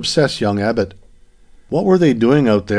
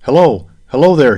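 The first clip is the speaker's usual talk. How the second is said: raised, higher narrated call; shouted; 4 semitones higher, 7 dB louder than usual. A narrator's reading. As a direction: call out louder, pitch falling on each hello. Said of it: "he shouted".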